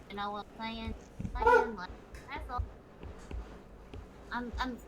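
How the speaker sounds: normal talking voice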